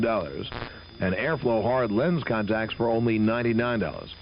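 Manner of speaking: brisk radio ad read. Acted. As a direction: sell it like a live radio spot. Host reads live optician ad.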